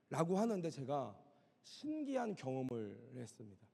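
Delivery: normal talking voice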